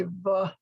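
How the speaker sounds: v with an added uh vowel; v ending in a trailing uh. Shown as a demonstration. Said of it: "Remember, we don't say".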